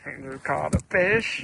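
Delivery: excited announcement. Real, not acted. Announcing the catch.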